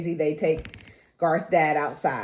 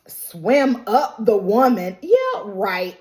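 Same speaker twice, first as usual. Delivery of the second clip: slow, louder mock-incredulous retort; scoffing disbelief; 2 semitones higher, 4 dB louder, slower than usual. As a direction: imitate a friend who isn't buying it. Shu scoffs at Daisy's explanation.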